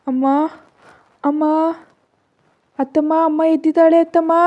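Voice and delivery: high, loud excited calls; child shouting. A narrator's reading. Murari shouting that his mother has woken up, loud. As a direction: call out to the whole house. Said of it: "ಅಂತ ಅರ್ಚ್ದ".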